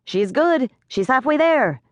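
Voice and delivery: high, small, fussy pixie voice; a tiny fretting pixie. A narrator's reading. Pixie Jenks voice.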